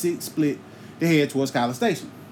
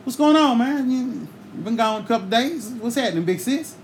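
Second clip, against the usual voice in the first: casual greeting; 4 semitones higher than usual. Retold or imitated. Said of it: "So I was like".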